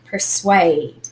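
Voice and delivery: persuade, long A drawn out at the end. Shown as a demonstration. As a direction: persuade with the second vowel held long. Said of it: "that makes the A sound".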